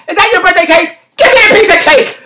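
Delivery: imitating someone brazenly demanding; mock demand. Imagined rude demand for cake.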